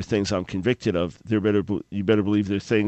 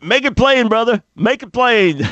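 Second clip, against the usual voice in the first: much higher, louder jubilant shout; enthusiastic church call; 12 semitones higher, 7 dB louder than usual. Retold or imitated. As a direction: cheer the preacher on. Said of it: "That's how they say amen".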